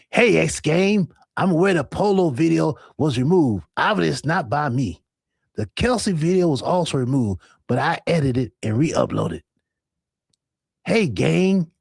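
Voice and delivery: half-successful imitation of another streamer reading his post; Marcus voice. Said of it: "Let me do my Marcus voice".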